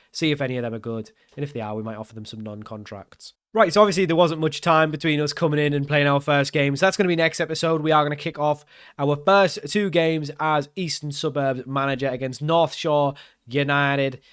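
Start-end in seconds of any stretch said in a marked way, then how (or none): 3.5-14.2 a clumsy attempt at a Kiwi accent, a bit louder; shaky fake New Zealand accent; bad New Zealand accent. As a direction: put on a New Zealand accent badly for the intro. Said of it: "That was a really bad New Zealand, Australian accent".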